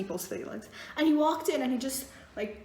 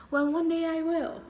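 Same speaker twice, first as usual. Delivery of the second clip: whispered one day I will; whispered hopeful reply; 4 semitones higher than usual. Retold or imitated. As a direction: whisper it wistfully. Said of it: "And she's like".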